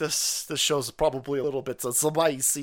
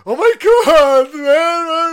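loud, slow and higher; stunned shout; 14 semitones higher, 16 dB louder, much slower than usual. Real, not acted. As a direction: blurt it out in disbelief, full volume. Shocked outburst at the footage.

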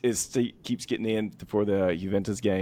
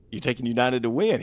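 lightly voiced bookie, pitched higher; sceptical bookie; 5 semitones higher, 3 dB louder than usual. Bookie checking a caller's bet on United, sceptical. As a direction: query the bet in mock disbelief. Acting out bookie on betting call.

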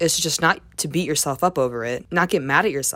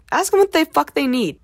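emphatic; 11 semitones higher, 5 dB louder than usual. Real, not acted. Emphatic advice in rant.

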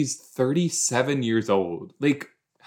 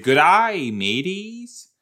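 mock Australian; 4 semitones higher, 3 dB louder than usual. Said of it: "So I should have said".

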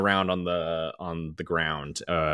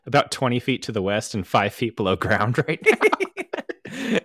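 robot voice; 4 semitones higher, 3 dB louder than usual. Retold or imitated. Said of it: "she's like".

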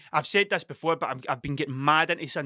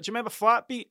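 pitched up, a bit incredulous; quizzing a stranger on the street, higher and nostalgic; mock demo of the question; 6 semitones higher, faster than usual. Shown as a demonstration. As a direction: replay "Do you remember Flatbeat?" lifted high. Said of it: "That's how I said".

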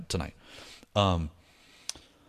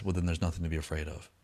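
retold reassuring inner voice; 4 semitones lower, 8 dB quieter, faster than usual. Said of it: "then the voice said".

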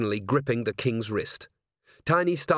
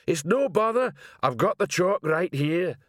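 helpful troll, pitched high; high troll voice, slowing at the end; troll sergeant; 7 semitones higher than usual. A narrator's reading. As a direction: offer it as an obliging troll. Troll insists to his captain.

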